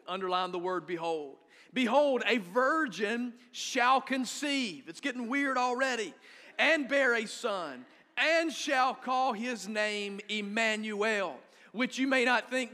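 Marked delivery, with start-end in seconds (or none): 1.7-4.9 slow, weighty reading of the verse; scripture reading. Shown as a demonstration. Pastor reads verse aloud. 6.6-11.4 slow, weighty reading of the verse; scripture reading. Shown as a demonstration. Pastor continues verse reading.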